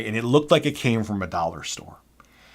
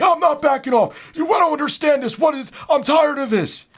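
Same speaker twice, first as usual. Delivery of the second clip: high, loud angry rant; mock flipping out; 4 dB louder than usual. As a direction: explode at the clerk in a put-on voice. Cleaner refusing to back off.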